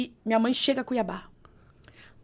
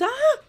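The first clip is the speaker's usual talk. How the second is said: high, louder yelp of fright, copying his; startled yell back; 8 dB louder than usual. Retold or imitated. Retelling how she yelled back at her husband, high startled yelp. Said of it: "eu fui na mesma entonação".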